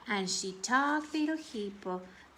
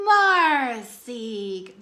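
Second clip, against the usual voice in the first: louder call of the kitten's name; shouting name; 10 dB louder than usual. Acted. Boys shout as they find their kitten, loud and glad. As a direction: call out the name in joyful surprise. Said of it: "the boys shouted".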